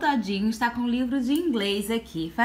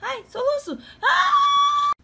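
hiccups; 7 semitones higher, 5 dB louder than usual. Real, not acted. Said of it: "tô com soluço".

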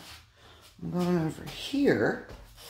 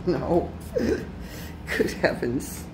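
slow, laughing exclamation; much slower than usual. Real, not acted. Man laughing at his train mishaps, slow disbelief.

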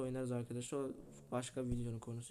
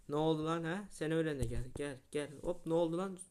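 taunting; 4 semitones higher, 5 dB louder than usual. Real, not acted. Taunting opponent after a goal.

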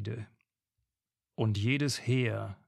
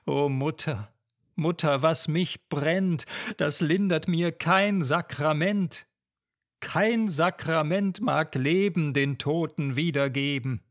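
despairing lament; 3 semitones higher, 3 dB louder than usual. Acted. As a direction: cry out your loss to mother. Lenore's burning grief.

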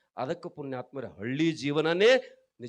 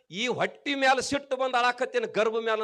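mock weeping in a raised, louder voice; retold tearful mother; 8 semitones higher, 6 dB louder than usual. Mother answers her jailed son why she weeps, retold tearfully. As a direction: imitate a crying mother, pitched high without sobs. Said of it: "ಅಂದ್ ಅಳತಾಕಿ".

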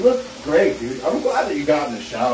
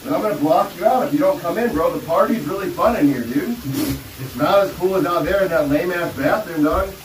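talking in the shower. Acted. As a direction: voice echoing under running water. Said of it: "I'm in the shower right now".

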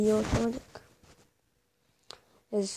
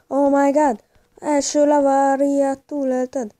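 excited; 5 semitones higher, 7 dB louder, slower than usual. Real, not acted. Excited gaming reaction shout.

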